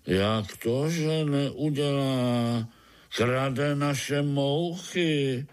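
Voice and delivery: slow, indignant complaint; understated indignation; mildly upset old spider. Acted. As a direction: protest slowly as a fussy old spider. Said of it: "Staroch se rozčiloval".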